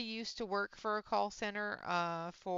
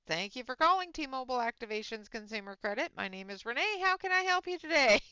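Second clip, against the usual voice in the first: chirpy scripted phone greeting, rising at the end; call-center greeting; 3 semitones higher, 3 dB louder, faster than usual. Retold or imitated. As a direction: rattle off the call-center opener brightly. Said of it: "the very first thing that comes out of my mouth is".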